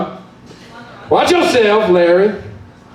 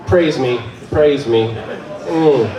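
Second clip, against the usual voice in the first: low, soft commanding purr; devilish demand; 7 semitones lower, 3 dB quieter, slower than usual. Acted. Satan commanding the crowd to praise him.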